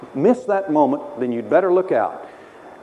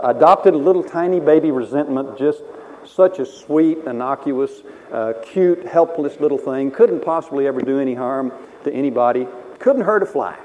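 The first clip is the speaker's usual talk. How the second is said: louder, sweet mock baby talk; mock cooing; 4 dB louder than usual. Preacher ironically cooing over a baby grudge, mock sweet. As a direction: coo over it like a cute pet.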